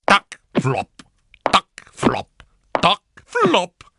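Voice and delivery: percussive tac-flop with small gaps; hopping noises. A narrator's reading. Brother hops up and down on his crutch, imitated clunks. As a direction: mimic the crutch and foot, beat by beat. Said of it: "Saltellò su e giù".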